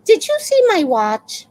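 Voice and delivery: loud, high mimicked demand; accusing yell. Imitating neighbor who came running over, loud and high. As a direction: imitate her calling out an accusation.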